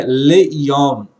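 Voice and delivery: "leyom" carefully sounded as le-yom; pronunciation demonstration. Shown as a demonstration. Teacher reading out the Hebrew expression, "leyom" said carefully. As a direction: say "leyom" with a clear short le before yom. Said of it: "A expressão aqui é".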